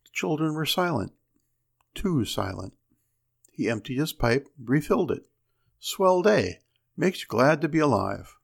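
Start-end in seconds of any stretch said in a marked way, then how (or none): 5.8-8.4 cheery. Acted. Husband cheerful after work.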